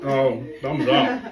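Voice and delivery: laughing. Real, not acted. Laughing at the child.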